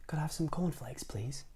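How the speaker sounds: soft, breathy whispered request; timid whisper. Acted. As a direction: whisper shyly to the grocer. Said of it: "whispered Mister Quiet".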